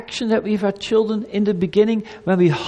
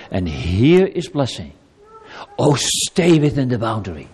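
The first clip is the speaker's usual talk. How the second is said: lower, gentle fatherly reassurance; loving God; 3 semitones lower than usual. Acted. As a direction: guide a child tenderly to safety. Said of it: "God speaks as a loving being".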